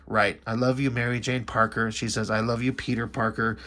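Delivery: low, soft and tender. Retold or imitated. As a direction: say it gently, like a last goodbye. Lovers' farewell, I love you.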